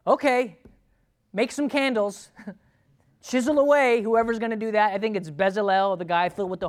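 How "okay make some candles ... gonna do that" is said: breezy, unimpressed take on the text; dismissive shrug. Retold or imitated. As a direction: toss it off like it's nothing. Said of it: "to read about that and go".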